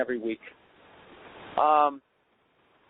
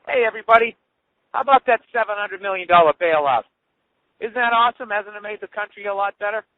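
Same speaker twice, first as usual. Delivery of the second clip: sarcastic cheer; 4 dB louder than usual. Acted. Sarcastic cheer about the bailout.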